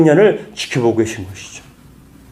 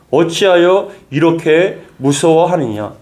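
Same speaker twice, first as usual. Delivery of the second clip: slow emphatic rebuke; slower than usual. Acted. Preacher repeats Jesus' rebuke.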